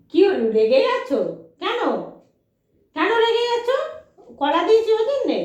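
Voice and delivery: very high, loud pet talk; high cooing questions to a pet. Real, not acted. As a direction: tease the grumpy dog sweetly. Asking angry dog.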